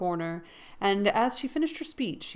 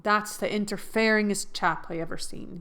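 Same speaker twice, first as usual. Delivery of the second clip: Hannah's voice. Shown as a demonstration. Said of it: "Oh, it's Hannah".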